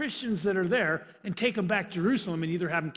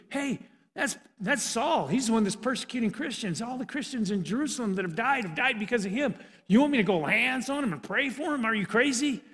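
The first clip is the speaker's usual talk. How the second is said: incredulous protest; 3 semitones higher than usual. Acted. Ananias protests to God.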